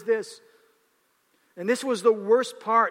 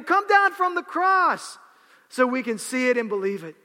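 scoffing; 3 semitones higher, 4 dB louder than usual. Acted. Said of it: "they scoffed".

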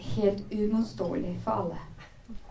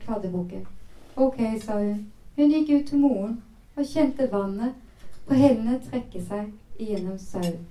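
reading a novel aloud, measured and even; story narration. Acted. Presenter reading the book excerpt to listeners, storytelling voice. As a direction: tell the scene as a storyteller.

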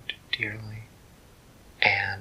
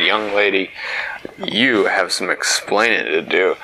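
stern Papa Bear; 3 semitones lower, 5 dB louder than usual. Acted. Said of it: "he said".

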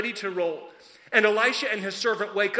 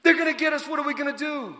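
higher and louder, alarmed servant; panicked; 6 semitones higher, 4 dB louder than usual. Acted. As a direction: plead like the enemy is at the door. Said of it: "And he's like".

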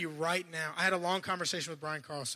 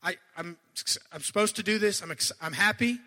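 louder, tripping over his words with eager excitement; mock excited Paul; 3 dB louder than usual. Preacher imagining Paul bursting with energy before the king, excited. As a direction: sputter like someone too thrilled to talk. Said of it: "I would have said something like".

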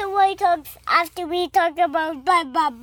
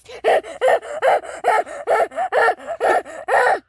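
imitated animal noise; 5 semitones higher than usual. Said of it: "And it says".

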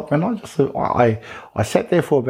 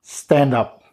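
teacher voice; 4 semitones higher than usual. Retold or imitated. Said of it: "that sort of teacher voice".

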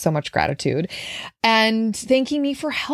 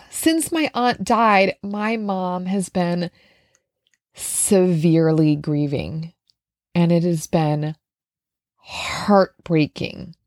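slow, lowered, sorrowful delivery with heavy pauses; grieving; 4 semitones lower, slower than usual. Real, not acted. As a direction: weigh each word, slowing down with sadness. Tearful account of mother's grief.

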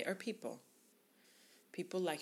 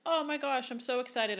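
much higher and louder, bubbling over; excited gushing; 6 semitones higher, 6 dB louder than usual. Shown as a demonstration. Wedding planner's check-in email to a couple, high loud gushing excitement. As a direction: squeal it like you can't contain yourself. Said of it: "take it one step further".

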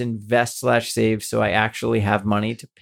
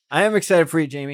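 excited; 5 semitones higher, faster than usual. Real, not acted. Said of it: "I need your excitement to pick up".

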